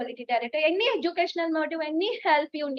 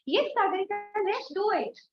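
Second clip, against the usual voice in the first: higher, brighter retold eager yes; eager quote; 4 semitones higher, 3 dB louder than usual. Team members assuring her at the first meeting: eager, pitched up. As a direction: voice the team's keen support, pitched up.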